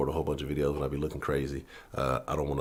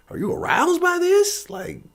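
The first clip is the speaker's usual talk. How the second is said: much higher, slower put-on voice; mocking the commentator; 7 dB louder, slower than usual. Mocking the commentator who loved Harden fouling out. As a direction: sneer at her like a cartoon. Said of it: "It's like".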